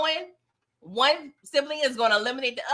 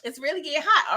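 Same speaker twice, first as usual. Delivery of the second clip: mock alarm; 7 semitones higher, 4 dB quieter than usual. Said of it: "I'm like".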